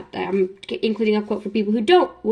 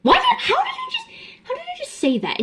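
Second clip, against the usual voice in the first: surprised. Real, not acted. Stunned by her own fluent line.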